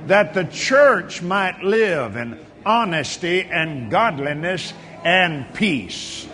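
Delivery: measured, emphatic pastoral prayer; preacher's prayer with long pauses between declarations; fervent prayer. Real, not acted. Leads congregation in fervent prayer.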